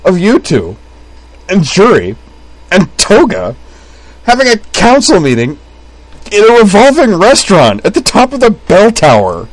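high, loud, broken into bursts; gasped through hysterics. A narrator's reading. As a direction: gasp out each phrase, building to a squeal. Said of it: "Utena gasped".

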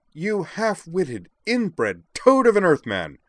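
high, loud, drawn-out bark; furious, slow, emphatic shout; barked insult. A narrator's reading. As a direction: hurl the insult across a bus. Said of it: "Amanda barked across the aisle".

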